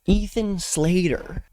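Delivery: slow, breathy-free dreamy savoring of Ethan Slater; swooning over the name. Pretend. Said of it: "He could take me out with a single gaze".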